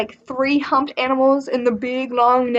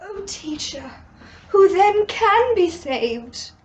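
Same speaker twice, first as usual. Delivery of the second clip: higher, slow, worried question; worried disciples; 7 semitones higher, slower than usual. Acted. Disciples asking their teacher, worried. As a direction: ask it like a frightened follower. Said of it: "the disciples were like".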